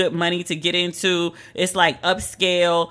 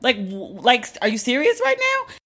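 much higher, stunned disbelief; incredulous; 3 semitones higher than usual. Retold or imitated. To the guard blocking her path, high incredulous squeak.

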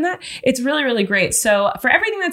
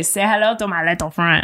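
lightly imitated comic movie accent, lower; Jim Carrey; 5 semitones lower than usual. Host recalling Jim Carrey's movie line, lightly imitated accent. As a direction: lightly mimic a comedian mocking the line, pitched down. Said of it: "I've seen Jim Carrey say".

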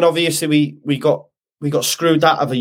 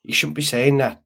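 put-on Irish accent; 4 dB quieter than usual. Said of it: "I don't know why I did an Irish accent".

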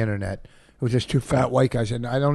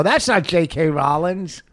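high, slow, laughing put-on voice; squeaky mock voice with a laugh; silly high voice; 6 semitones higher, 5 dB louder, slower than usual. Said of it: "I'm not sure I like how you're saying Rowling's".

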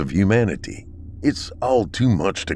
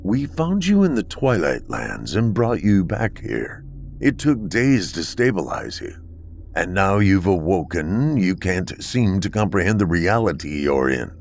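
stern bunker dweller. Acted. Akron's slow, measured replies.

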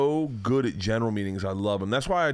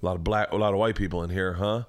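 mock audition entrance; 5 semitones lower than usual. Comic walking into an audition to needle the room, low and offhand. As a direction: sound out the room under your breath, in a lower voice. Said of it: "I'd walk in and I, and go".

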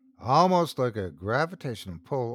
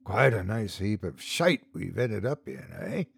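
makeshift chuckle; 3 semitones lower, 4 dB quieter than usual. Acted. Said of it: "with a makeshift chuckle".

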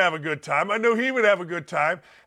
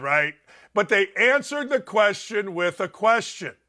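ordinary talk, nothing marked

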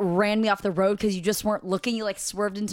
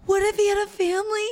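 crying; 10 semitones higher than usual. Retold or imitated. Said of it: "I started crying".

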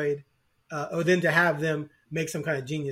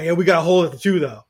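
mock fan whine; 7 dB louder, faster than usual. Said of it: "and then people cry".

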